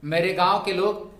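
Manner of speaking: slow, measured dictation with pauses between phrases; classroom dictation. Real, not acted. Teacher dictating homework sentences for students to write, measured dictation. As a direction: dictate each phrase deliberately for note-takers.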